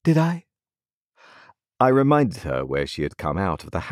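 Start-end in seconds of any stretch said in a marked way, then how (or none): 0.0-0.5 cold and careless. A narrator's reading. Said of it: "with a cold and careless look".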